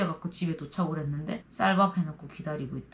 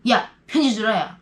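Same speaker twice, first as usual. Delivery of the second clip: calling out; 3 semitones higher, 5 dB louder than usual. Retold or imitated. Team leader calls her out.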